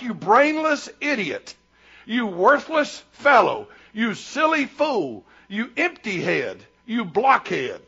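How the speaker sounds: slow, measured mock name-calling; demonstrating slow, deliberate derision; derisive insults. Shown as a demonstration. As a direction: spell out each insult with mild mock contempt. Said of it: "It's a term of malicious abuse, derision".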